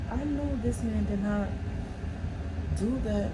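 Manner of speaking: high, incredulous replayed reaction; outraged disbelief. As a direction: build to a high-pitched last word, scandalized. Replays her shocked reaction while reading.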